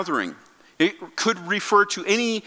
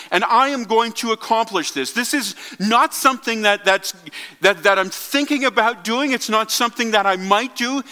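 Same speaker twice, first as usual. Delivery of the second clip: raised pitch, firm insistence; emphatic declaration; 4 semitones higher than usual. Retold or imitated. Preacher voicing Jesus' resolve to build his church, emphatic. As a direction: insist on it as a settled promise. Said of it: "He's very emphatic".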